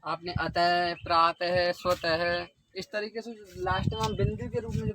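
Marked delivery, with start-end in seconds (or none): 0.4-2.5 अतः, प्रातः, स्वतः each ending in an h sound; visarga as h. Shown as a demonstration. Teacher giving Sanskrit examples, ह sound closing अतः, प्रातः, स्वतः. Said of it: "इसका उच्चारण ह की तरह होता है".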